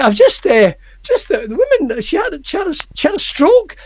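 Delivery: flustered retelling. Retold or imitated. Telling the instructor what just happened, acted fluster. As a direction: act out halting, high-pitched shock, stretching the last word.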